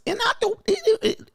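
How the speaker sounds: very high falsetto stammer; high-pitched voice. Shown as a demonstration. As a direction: squeak it out in falsetto. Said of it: "with the high-pitched voice".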